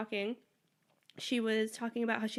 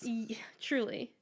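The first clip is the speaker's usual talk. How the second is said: slow unvoiced whisper; whispered agreement; 6 dB quieter, slower than usual. Friend whispering agreement about the rocks. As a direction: whisper back, slowly.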